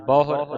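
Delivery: ਬਹੁਰ with the final r fully sounded; full final r. Shown as a demonstration. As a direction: finish ਬਹੁਰ on a complete r. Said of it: "ਰਾਰੇ ਨੂੰ ਪੂਰਾ ਬੋਲਣਾ ਹੈ". (ਬਹੁਰ ਪੂਰੇ ਰਾਰੇ ਨਾਲ)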